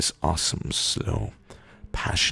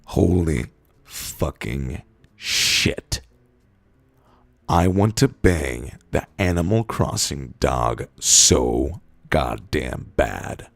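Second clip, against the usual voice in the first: slow, loud, drawn-out desperate cry; a hammed-up, overwrought confession; loud frenzied outburst; 5 dB louder, much slower than usual. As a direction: stretch each word out like you're losing it.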